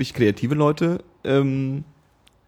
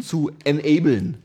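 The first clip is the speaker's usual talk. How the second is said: business manager English; slower than usual. Shown as a demonstration. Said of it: "Achtung, Business Manager Englisch".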